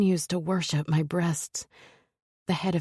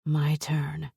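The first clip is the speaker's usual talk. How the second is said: seductive murmur. Acted. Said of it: "I murmur in what I hope is a seductive voice".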